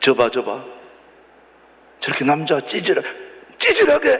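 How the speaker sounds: mocking put-on voice.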